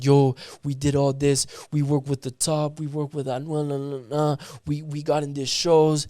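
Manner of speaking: imitating a producer's running list of grievances; retold rant. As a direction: rattle off complaints, lightly acted. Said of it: "he just starts ranting".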